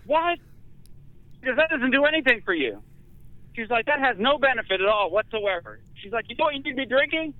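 very high mock outrage; hammed-up shocked nurse; outraged nurse. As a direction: nurse appalled at his diet soda, mock outrage.

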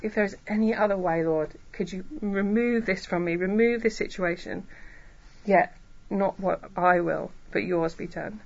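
measured, submissive plea to God; restrained request sinking into acceptance; humble prayer. Acted. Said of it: "Humbling ourselves is the way we talk to God".

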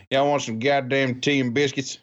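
high-pitched mock redneck British accent; Southern hick twang meets British. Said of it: "a redneck British accent".

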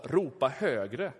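2 a slow, drawn-out taunt, read lightly; 3 lightly voiced mocking prophet; 4 understated scripture taunt; 1 teasing. A narrator's reading. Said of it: "retades Elia med dem och sa".

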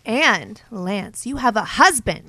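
loud, outraged troll voice; online troll. Acted. Co-host reads Pistolo's comment aloud, loud hammed-up outrage. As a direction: declaim it like an indignant internet commenter, drawing out phrases. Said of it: "in the way we think the online troll would sound".

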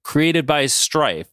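low, deliberate villain exposition; Mister Sinister. Acted. Sinister explains his tests to the X-Men, low and deliberate. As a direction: lay out the scheme in a deep voice. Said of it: "And then Sinister goes".

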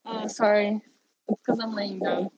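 muffled from lying down. Real, not acted. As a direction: talk half-buried in a pillow. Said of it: "You sound muffled".

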